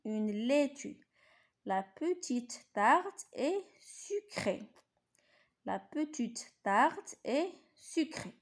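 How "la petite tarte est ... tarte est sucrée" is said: slow model reading. Shown as a demonstration. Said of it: "نقراو هادو قراءة جيدة".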